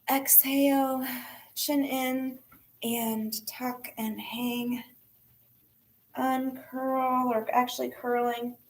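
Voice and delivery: yoga cueing with pauses between phrases; guided yoga instruction. Real, not acted. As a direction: talk them through the stretch, breath by breath. Guides students through a forward fold.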